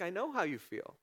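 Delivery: God calmly soothing a grieving person; gentle reassurance. Pretend. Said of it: "He's like".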